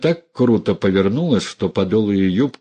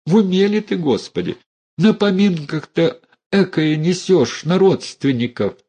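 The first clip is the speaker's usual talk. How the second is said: mild frightened plea; 9 semitones higher than usual. Acted. Mother begs Dunya.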